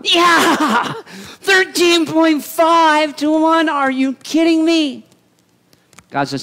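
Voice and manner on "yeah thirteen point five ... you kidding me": high, loud, slow laughing disbelief; incredulous laughing Gideon. Retold or imitated. Gideon laughing in disbelief at God's odds, high and loud. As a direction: laugh it out like the odds are absurd.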